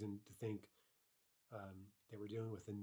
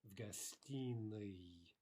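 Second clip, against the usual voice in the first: "В гостиной" drawn out slowly; teacher slowly models "В гостиной"; careful slow repetition; much slower than usual. Shown as a demonstration. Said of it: "decline it as such".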